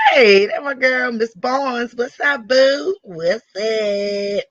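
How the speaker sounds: high, drawn-out squeal of hello; excited greeting. Real, not acted. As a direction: call out to a friend, voice jumping up high. Breaks off to greet a friend.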